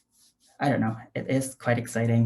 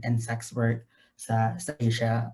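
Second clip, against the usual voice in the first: Taglish; 2 semitones lower than usual. Real, not acted. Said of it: "is it okay if I do it in Taglish".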